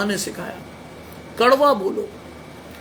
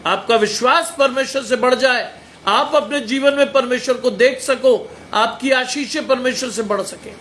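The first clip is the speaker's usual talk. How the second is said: blessing built in raised, insistent phrases; forceful preaching; 3 semitones higher, 3 dB louder than usual. Real, not acted. Preacher blessing the listeners' faith, forceful preaching. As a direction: proclaim each wish with conviction.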